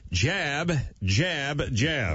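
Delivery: "Jab" said crisp and proper, like Kelsey Grammer; a posh, correct "jab" in a Frasier manner. Retold or imitated. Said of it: "the guy sounded like Kelsey Grammer".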